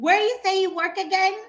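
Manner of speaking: high loaded question; pointed question. Retold or imitated. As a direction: press him with a loaded question.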